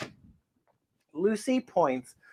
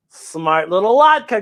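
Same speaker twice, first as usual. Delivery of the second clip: fond praise; 4 dB louder, slower than usual. Acted. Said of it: "Grandpa says".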